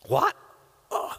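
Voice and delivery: sharp loud gasp of disbelief; stunned. Acted. Old Jacob hearing his son lives, stunned outburst. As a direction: blurt it out, floored by the news. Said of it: "Jacob was stunned".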